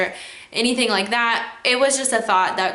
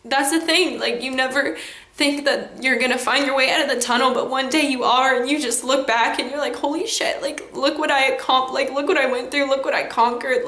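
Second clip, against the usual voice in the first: higher, choked-up voice welling with feeling; emotional; 4 semitones higher than usual. Real, not acted. Vlogger telling viewers she made it out, emotional. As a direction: let the emotion rise as you look back. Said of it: "I'm just really emotional right now".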